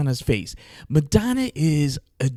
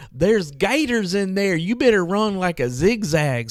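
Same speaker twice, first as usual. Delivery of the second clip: slow, higher mock-serious warning; drawn-out warning, higher and slowed; warning about gators; 6 semitones higher, slower than usual. Hotel guy warns guest about gators, slow mock-serious warning.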